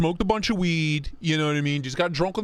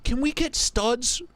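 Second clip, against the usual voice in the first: mock high voice; 8 semitones higher, slower than usual. Mock voice reading chat.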